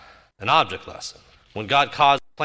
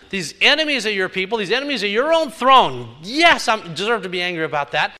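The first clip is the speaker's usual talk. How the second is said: indignant Jonah; 4 semitones higher, 4 dB louder than usual. Retold or imitated. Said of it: "He just says".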